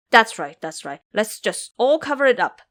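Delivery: Ba Jie agreeing to hide it; eager pig monk. Acted. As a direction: jump on the plan.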